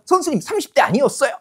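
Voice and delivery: exaggerated high-pitched mock amazement; insincere flattery. Glib first-year faking surprise at the teacher's age, hollow flattery. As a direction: parody a pupil's unconvincing compliment. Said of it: "왜 이렇게 목소리가 건성이냐".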